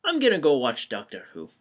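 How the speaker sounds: put-on fast Scottish accent that won't go away; still Scottish. Retrying the exit line, stuck in a Scottish accent. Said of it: "Still Scottish, damn it".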